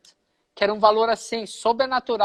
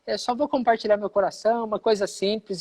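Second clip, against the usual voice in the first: a light imitation of a preacher's modest opening; imitating apostle Ricardo. Apostle opening his sermon to the congregation, lightly imitated. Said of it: "daquele jeito que ele prega, fala assim".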